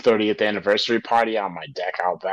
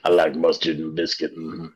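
Sling Blade impression; 5 semitones lower than usual. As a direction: do a lightly voiced Sling Blade. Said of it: "Sling Blade impression".

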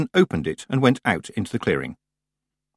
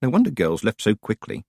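ordinary delivery

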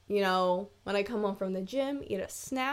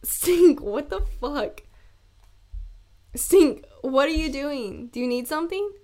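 calling the dog; 3 semitones higher, 4 dB louder than usual. Real, not acted.

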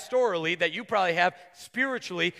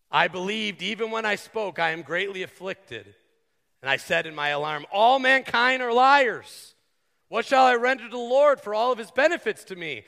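scripture reading. Acted. Pastor reading Psalm 116 to congregation, solemn reading. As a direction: read the psalm like a proclamation.

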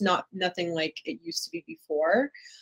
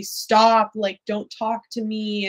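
mild mock anger, louder on "Stop", then slower; retold angry brush-off; 3 semitones higher, 5 dB louder, slower than usual. Bullied girl telling classmates to stop, mild retold anger. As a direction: snap back at the bullies, half-heartedly. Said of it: "I would get angry at those people".

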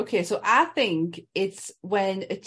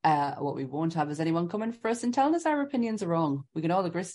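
disclaimer read; 2 semitones lower than usual. Acted. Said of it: "Sammy's disclaimer".

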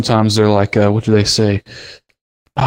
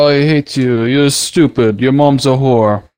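put-on Russian accent; 3 semitones higher, slower than usual. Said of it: "I'm talking in a Russian accent".

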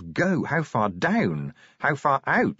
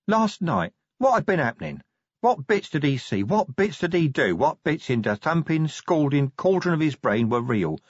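higher-pitched, rough-spoken troll voice; bewildered street troll, pitched up; dazed troll; 4 semitones higher than usual. Acted. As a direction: puzzle it out as a muddled troll. Troll Brick's muddled thoughts.

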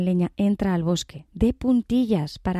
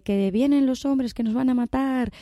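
fox crying out; 6 semitones higher than usual. Acted. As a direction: keep the fake alarm going. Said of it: "sigue diciendo".

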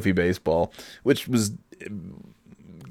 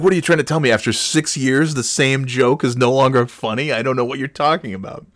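mock indignation; 6 semitones higher than usual. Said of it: "I'm like".

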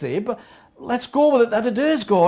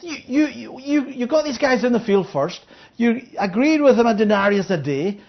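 indignant complaint. Acted. Worker complaining to master.

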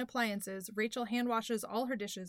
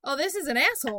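mock disdain; 5 semitones higher, 5 dB louder, faster than usual. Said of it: "And I was like".

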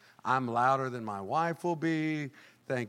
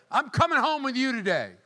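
higher, loud public announcement; calling out; 12 semitones higher, 7 dB louder than usual. Acted. Jesus calling a churchgoer out in public. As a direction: announce it to everyone.

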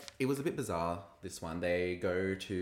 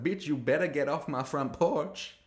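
higher, louder mock telling-off; Rue impression; 6 semitones higher, 5 dB louder than usual. Host shooing queen off front porch, mock telling-off. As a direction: order them away in a hammy raised voice. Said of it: "And Rue's like".

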